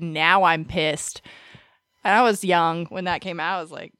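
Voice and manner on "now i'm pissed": robot line. Retold or imitated. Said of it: "he said".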